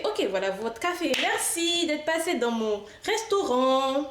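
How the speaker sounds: lightly put-on restaurant owner talking to customers; playing restaurant host. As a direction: greet and serve them like a cheery waitress. Plays the restaurant owner serving customers.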